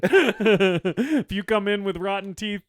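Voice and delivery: a slow, laughing boss voice; deadpan boss warning, slowed; slow mock boss. Joking voice as the boss.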